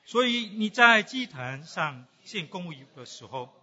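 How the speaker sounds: steady, declaiming Bible reading to the congregation; preacher reading Matthew aloud to the church; scripture reading. Acted. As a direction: read the verses out with weight.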